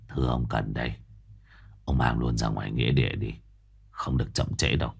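low, soft, firm instructions; master's low voice. Acted. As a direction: give orders quietly and firmly.

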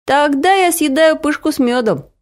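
a lightly voiced glad boy; happy boy. A narrator's reading. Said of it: "радостно ответил Вася".

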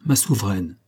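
restrained, affectionate address to a queen; noble emotion. A narrator's reading. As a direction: say it with understated noble feeling. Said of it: "avec une émotion qui venait d'une noble affection". (émotion noble et contenue)

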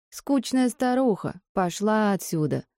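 high, slow heckling voice; jeering shout. Acted. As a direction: heckle her from the crowd. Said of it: "крикнул какой-то жердяй".

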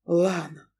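understated shocked gasp; gasped name. Acted. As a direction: gasp her name in disbelief. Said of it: "ахнул Павел".

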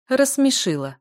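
high, loud cackling word; guffawing. A narrator's reading. Healer guffawing at the girl's claim. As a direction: guffaw it at her. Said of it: "гоготал мужчина".

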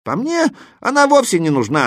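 put-on high, candid boyish answer; frank reply. A narrator's reading. Boy gives his view of commas, frank. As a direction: say it openly, without hesitation. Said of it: "ответил я откровенно".

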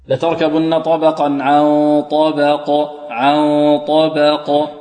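recited عن طبق with thin ب and heavy bouncing ق; ترقيق الباء وتفخيم القاف. Shown as a demonstration. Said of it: "الباء مرققة والقاف". (تلاوة عن طبق بباء مرققة وقاف مفخمة)

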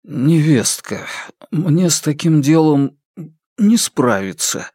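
slow, hesitant, squeezed-out words; barely manage to get it out; forced out. Acted. Jintun forcing out a refusal to his sister-in-law, slow and hesitant. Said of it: "выдавил из себя Цзиньтун".

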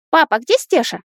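put-on a small boy looking for Stesha; worried little son. A narrator's reading. A son anxiously asks his father where Stesha is. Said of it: "обеспокоенный сын".

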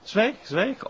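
high, loud outburst; furious shout. Acted. Tom screaming at Koen for insulting the master, furious shout. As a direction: scream at him to shut up.

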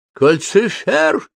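high drawn-out shriek of a name. A narrator's reading. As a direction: shriek it out in panic. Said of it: "завизжала Софи".

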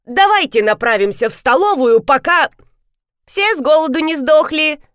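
выше и громче, нахально; нахально договори за бабушку; грубая девочка. A narrator's reading. (девочка грубо договаривает за бабушку, громче)

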